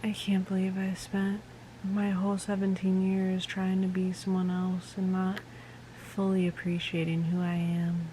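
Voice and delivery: soft, breathy mock deathbed line; mock dying whisper. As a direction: fade out like a dying heroine. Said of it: "as she's dying".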